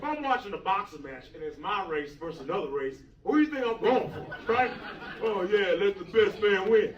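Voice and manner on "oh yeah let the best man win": fake sportsmanship. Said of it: "That's what I say on the outside".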